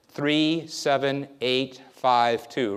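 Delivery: a memory tester reading a digit string to a volunteer. Shown as a demonstration. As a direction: dictate the digits clearly, one at a time. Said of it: "I'm gonna read to you numbers".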